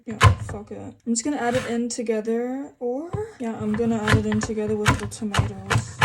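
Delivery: loud put-on deep voice. Real, not acted. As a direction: drop into a mock deep voice. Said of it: "I'm doing a deep voice".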